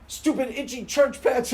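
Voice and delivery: put-on high, slow whining kid voice; imitating Homer whining about church pants; whiny complaining kid. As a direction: drag out the complaint like a sulky child. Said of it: "you're complaining the whole time".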